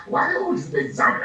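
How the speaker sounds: high, loud amused question; playful high squeal of a question; amused outburst. Real, not acted. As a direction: toss it out laughing at yourself. Laughing aside about zombies.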